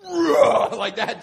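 high, loud, slow enraged roar; mock rage. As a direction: explode with rage, laughing. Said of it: "they filled them with rage".

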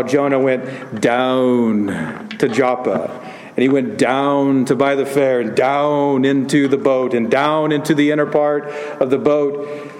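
lightly Scottish-tinged preaching voice, stressing each "down"; a hint of a Scottish preacher as he drives home "down"; Scottish preacher impression. Pastor recalling his Scottish professor, a light Scottish preaching lilt. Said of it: "I wish you could have heard him".

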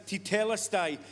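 tetelestai said tee-TELL-es-tie, ending falling; announced pronunciation. Shown as a demonstration. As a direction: present tetelestai deliberately, syllable by syllable. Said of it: "I'm gonna say it like this".

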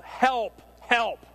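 high, loud mock cry of help; hammed-up cry for help; yelling for help. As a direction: shout it like a panicked man. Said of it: "He yelled".

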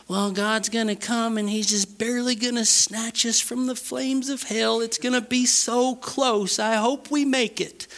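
high, thin, fretful mock voice; mock worried believer. Preacher imitates believers fearing they barely escape hell, mock-worried. Mocks timid believers before rebuking.

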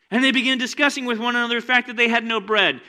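loud, high, driving preacher voice; preaching at full force. Acted. Pastor firing up the congregation, loud preaching. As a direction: preach it big and urgent.

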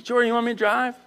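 light, unforced question; casual offer. Retold or imitated. Bethany offering to drive, casual. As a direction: ask gently, rising at the end.

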